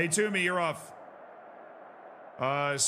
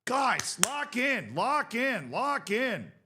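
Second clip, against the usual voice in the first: urgent plea; 7 semitones higher, much slower than usual. Real, not acted. Urging his team loudly.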